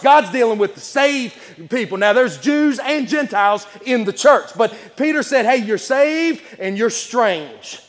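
preaching. Real, not acted. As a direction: preach it out with punched key words. Preaches to congregation.

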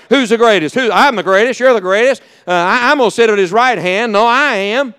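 mock bickering among rivals; lightly acted argument, each cutting in to claim top spot; squabbling. Disciples fussing among themselves on the way to the cross, bickering. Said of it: "they're fussing and fighting among themselves".

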